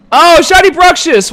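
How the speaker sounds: high, loud burst of delight; real thrill at a rare catch; excited gasp. Real, not acted. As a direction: cry out at the shiny find. Spotting a shiny Pokemon.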